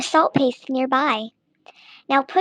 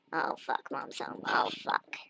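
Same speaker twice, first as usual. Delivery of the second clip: hushed whisper, much softer, caught out; panicked whisper; 10 semitones lower, 15 dB quieter than usual. Real, not acted. Hiding from Mom who just came home, panicked whisper. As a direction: whisper in alarm so Mom won't hear.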